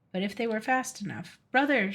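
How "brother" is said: crying out. Acted. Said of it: "she cried out".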